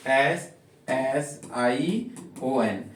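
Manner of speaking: एस एस आई ओ एन spelled very slowly, letter by letter; slow spelling. Shown as a demonstration. Teacher spelling the letters for students, very slowly. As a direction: spell एस एस आई ओ एन deliberately. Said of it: "combination".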